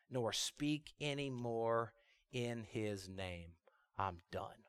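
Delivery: slow, low, soft resignation; acted defeat sinking to near silence; giving up. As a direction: quit wearily, with long heavy pauses. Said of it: "Jeremiah just quits. He's done".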